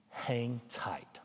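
breathy whisper, hushed and unvoiced; soft whispered aside; whispered advice. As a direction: lean in and whisper it like a secret tip. Advising parents on kids' phones.

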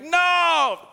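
high, loud wimpy cry. Retold or imitated. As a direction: whine it like a weak king. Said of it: "really wimpy".

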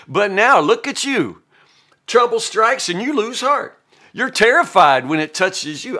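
a hint of a smug friend lecturing; lightly voiced Eliphaz. Eliphaz lecturing suffering Job, lightly smug. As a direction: preach at him with mild smugness. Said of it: "Eliphaz says".

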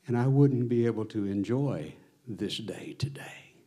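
hushed whisper, breath only; whispered confession. Retold or imitated. Pastor whispers the woman's tearful what-ifs to the congregation. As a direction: let her what-ifs slip out in a whisper.

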